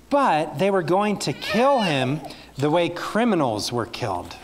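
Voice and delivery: put-on storybook reading to children, measured and earnest; story narration. A narrator's reading. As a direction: tell it gently to a room of kids. Reads Bible story to children.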